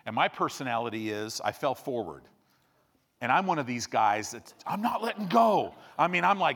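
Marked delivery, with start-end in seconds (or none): 4.7-5.7 mock-stubborn, pitch pushed up; stubborn refusal. Preacher acting out his water-skiing fall, mock-stubborn. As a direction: dig in and refuse to release.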